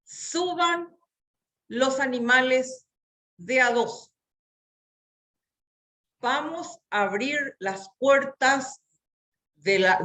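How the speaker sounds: a hint of a commanding God. Shown as a demonstration. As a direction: proclaim it like God giving orders. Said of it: "Y dijo Dios".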